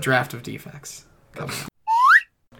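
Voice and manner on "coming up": announcer voice. Acted. Announcer hype for draft segment.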